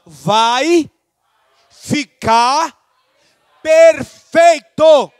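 word-by-word rallying call, building to a shout; brado encorajador. Shown as a demonstration. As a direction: stretch each word, climbing to a loud finish. Leading congregation to repeat encouragingly. (brado de encorajamento, bem pausado)

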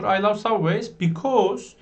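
slow, careful English; slow model sentence. Shown as a demonstration. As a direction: say it slowly for learners. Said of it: "Dediğim gibi like de olur".

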